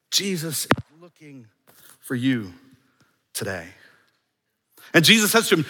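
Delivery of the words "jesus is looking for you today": slowed right down, each phrase set apart; drawn-out, deliberate restatement; slow, emphatic repeat. Shown as a demonstration. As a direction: let every word land slowly.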